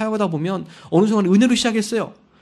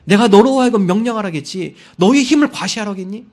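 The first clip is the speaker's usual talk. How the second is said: loud, higher, stern rebuke; God's rebuke; 3 semitones higher, 7 dB louder than usual. Retold or imitated. God rebuking Moses for striking the rock, loud and stern. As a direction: scold him from above with authority. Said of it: "모세에게 책망해요".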